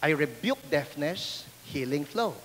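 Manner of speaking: low, soft and slow; hushed healing prayer; soft prayer whisper. Retold or imitated. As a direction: murmur the prayer close to his ear. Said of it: "I just whispered this".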